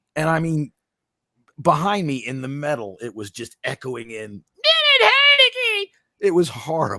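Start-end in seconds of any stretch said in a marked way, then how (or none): 4.5-5.9 mock woman's scream, much higher and louder. Recounting a loudmouth woman behind them, imitating her screaming. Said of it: "loudmouth chick up here screaming".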